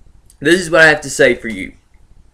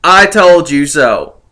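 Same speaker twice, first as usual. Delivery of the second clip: smug gloat; 4 dB louder, slower than usual. Real, not acted. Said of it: "now I can say".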